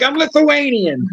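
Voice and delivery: imitating an indignant correction, stretched out; retold protest. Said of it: "And he'd be like".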